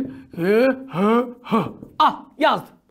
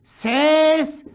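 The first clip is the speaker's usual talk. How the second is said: slow dictation; 2 semitones lower, much slower than usual. Shown as a demonstration. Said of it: "Notunu al".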